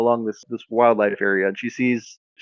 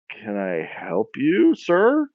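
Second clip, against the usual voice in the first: wary politeness; much slower than usual. Acted. Woman greets a costumed wizard at her office, warily polite. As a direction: draw it out, doubtful but polite. Receptionist puzzled by wizard visitor.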